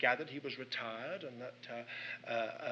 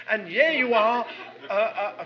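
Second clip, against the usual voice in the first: laughing at himself mid-sentence; louder, laughing self-mockery; 5 semitones higher, 12 dB louder than usual. Real, not acted. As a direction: chuckle through the self-scolding. Scolding himself, breaks into laughter.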